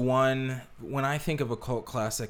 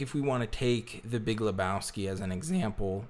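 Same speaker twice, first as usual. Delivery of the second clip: voice cracking. Real, not acted. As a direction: voice cracks mid-sentence. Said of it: "my voice just cracked".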